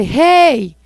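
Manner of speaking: hey with a breathy h; English hey. Shown as a demonstration. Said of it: "Esse H tem um som de R". (hey chamando em inglês)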